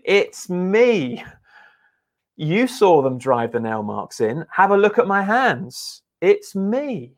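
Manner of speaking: insist, make them look at the wounds; emphatic insistence. Acted. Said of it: "the original language is very emphatic".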